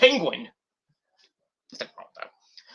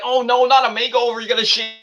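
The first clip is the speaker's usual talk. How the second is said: mock horrified protest; 5 semitones higher than usual. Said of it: "I was like".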